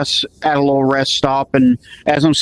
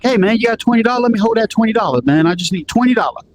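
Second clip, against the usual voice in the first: put-on pushy young hustler, pitched higher; street kid voice; 6 semitones higher, faster than usual. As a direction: beg hard like a street kid with a knife. Teen hustler asking again.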